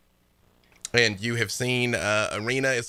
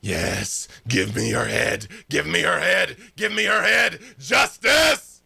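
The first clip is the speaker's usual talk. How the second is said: high, loud, gleeful blade spirit; cackling sword voice; 7 semitones higher, 5 dB louder, slower than usual. Acted. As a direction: hiss it like a mad weapon. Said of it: "cackling maniacally in your head".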